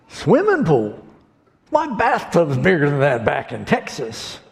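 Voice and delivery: a hint of a brash rancher; mock disbelief, lightly voiced; lightly voiced scoffing Texan. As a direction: rancher brushing off the pool.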